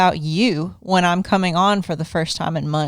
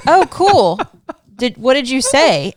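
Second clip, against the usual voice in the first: mock excitement; 5 semitones higher, 4 dB louder than usual. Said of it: "And I said".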